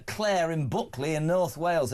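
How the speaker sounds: put-on lightly done North Wales accent. Host reading out a North Wales listener, light Welsh accent. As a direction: slip into a hint of North Welsh. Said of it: "why I've done that accent".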